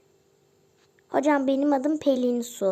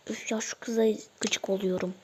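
whispered aside; 3 semitones lower, 6 dB quieter than usual. Acted.

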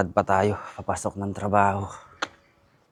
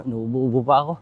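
coughing; 5 semitones higher, 6 dB louder than usual. Real, not acted. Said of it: "Grabe talaga tong ubong to".

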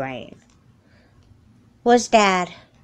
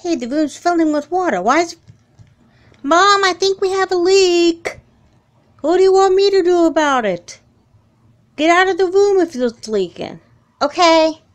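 high, loud, frantic calls to mom; panicked calling; 9 semitones higher, 4 dB louder than usual. Acted. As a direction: cry for help as the water rises. Panicked daughter in flooding room.

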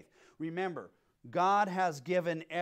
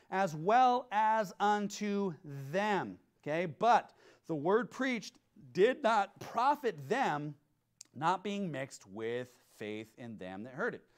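slow, solemn verse reading; scripture reading; slower than usual. Acted. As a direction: read it like holy text, unhurried.

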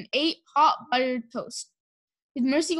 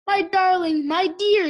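higher, louder tender outpouring; fervent endearment; 6 semitones higher, 5 dB louder, slower than usual. A narrator's reading. Mister Watson hugging Mercy after her flight, fervently tender. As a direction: pour out relieved affection. Relieved husband hugs pig after danger.

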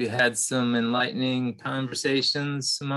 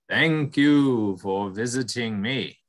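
buffalo voice; slower than usual. Acted. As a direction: greet him like a gentle giant. Buffalo speaks.

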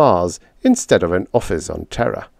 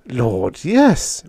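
breathed; 2 semitones higher than usual. Acted. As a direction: breathe it out, half under the breath. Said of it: "breathed Weems".

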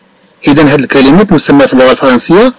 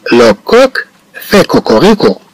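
slow model reading; 5 semitones higher, much slower than usual. Shown as a demonstration. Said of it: "teacher models the answer".

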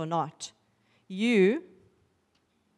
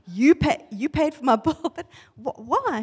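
higher, halting disbelief with a laugh; incredulous; 4 semitones higher, 3 dB louder than usual. Retold or imitated. Patient to stranger who paid her bill, incredulous. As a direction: stumble over the words in retold amazement.

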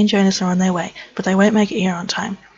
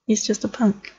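breathy unvoiced whisper; 4 dB quieter, slower than usual. Real, not acted. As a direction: whisper it conspiratorially. Whispered aside on horse.

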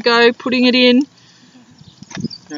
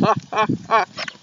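dingo laugh; 5 dB quieter than usual. Acted. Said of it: "Dingo laughed".

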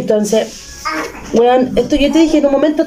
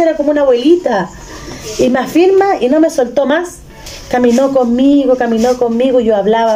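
usual speaking voice

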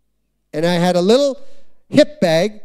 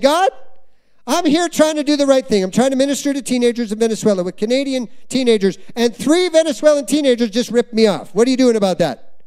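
higher, frustrated complaint to God; mock indignant protest, voice raised high; angry at God; 4 semitones higher than usual. Pastor retelling his angry complaint to God, frustrated and raised. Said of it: "I was actually mad at God".

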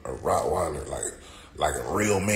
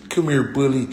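high, louder sing-song calling a little dog; mock a dainty dog owner; mock call to a tiny pet; mocking small-dog owner; 7 semitones higher, 6 dB louder than usual. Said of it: "I don't need no fucking".

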